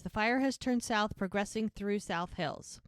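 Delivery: lightly voiced news reporter; measured bulletin read, slowing at the end; a hint of radio news delivery. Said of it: "the reporter on the radio says".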